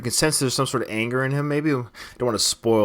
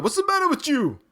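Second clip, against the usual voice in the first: high-pitched imitated movie outburst; mock exasperated trainer, voice jumping way up; Rocky. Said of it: "So Rocky's caught that on from Apollo".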